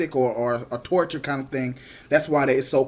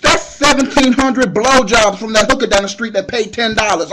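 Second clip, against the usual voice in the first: comic outraged rant; 6 semitones higher, 8 dB louder than usual. Retold or imitated. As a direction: shout it out in mock outrage. Ranting about bail cost.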